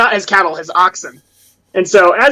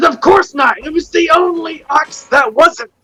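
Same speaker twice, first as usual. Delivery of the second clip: put-on drunk farmer voice, higher pitch; 7 semitones higher than usual. Narrating a game, voicing a very drunk farmer's answer in a drunk farmer voice. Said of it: "the guy was super drunk".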